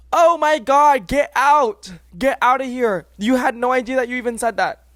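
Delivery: loud, high-pitched exasperated outburst; mock incredulity. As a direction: explode in disbelief at their excuse. Acted sarcastic disbelief at offender.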